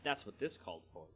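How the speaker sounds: steady storyteller reading a fantasy tale; story narration. A narrator's reading. Narrator reading a Magic story to viewers, measured storytelling. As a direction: read it like an audiobook narrator. Reads story aloud after chat.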